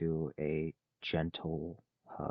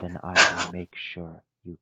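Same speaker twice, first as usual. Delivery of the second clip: loud vow; 10 dB louder than usual. Acted. Vow to comfort crying friend.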